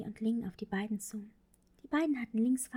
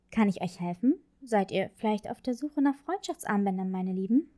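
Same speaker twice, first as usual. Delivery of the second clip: friendly saleswoman; 2 semitones lower, 5 dB louder than usual. Acted. Flamingo saleswoman speaks to girls.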